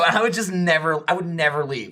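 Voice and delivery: normal talking voice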